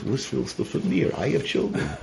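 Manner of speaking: mildly irritated retelling of a rebuke; angry retort. Retold or imitated. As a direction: throw the problem back at them, mildly cross. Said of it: "He got angry at her".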